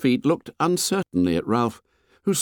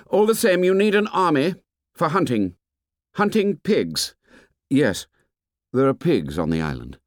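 higher, lightly voiced eager boy; boy breaking in; 7 semitones higher than usual. A narrator's reading. Jack interrupts about hunting pigs, insistent and higher. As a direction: cut in with a raised, insistent voice.

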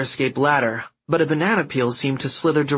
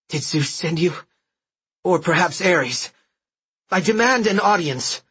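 haughty demand; 5 semitones higher than usual. Acted. Apollo demands audience from thugs.

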